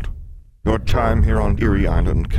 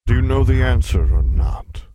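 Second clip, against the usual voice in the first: loud, higher, impatient demand; 5 semitones higher, 7 dB louder than usual. Acted. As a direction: press her for an answer. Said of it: "demanded the Sphinx".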